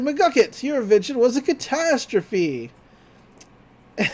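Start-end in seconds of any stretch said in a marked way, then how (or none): 0.0-2.7 mildly acted outburst, raised pitch; retold complaint. Dipper complains to the inventor about his invention, mildly acted outrage. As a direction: lightly act out an indignant customer. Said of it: "he's like".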